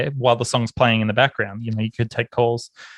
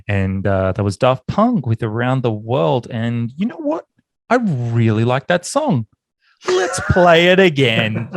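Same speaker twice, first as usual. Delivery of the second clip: on-air DJ announcement. Retold or imitated. Back on air as DJ.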